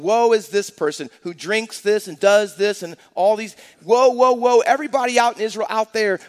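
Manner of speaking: hammed-up preacher condemning the crowd; mock fire-and-brimstone woe. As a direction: thunder woe at everyone else. Mocking a judgmental preacher.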